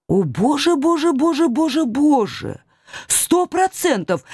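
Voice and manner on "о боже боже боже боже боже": horrified panic. Acted. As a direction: wail in horror. Discovers horns, panics.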